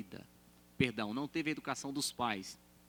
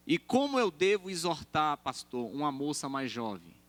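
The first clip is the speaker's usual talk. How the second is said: raised, louder asking voice of a church member; mock congregant question; 3 semitones higher, 7 dB louder than usual. Church member asking the pastor, raised and eager.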